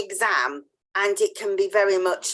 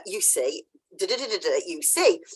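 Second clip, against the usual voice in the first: imitated channelled voice; 2 semitones lower, 3 dB quieter than usual. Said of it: "I could hear this one going".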